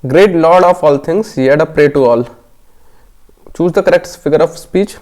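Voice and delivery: slow, deliberate reading of the quiz text; slow question reading. Acted. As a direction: read each word out slowly for the class. Reads the question text aloud.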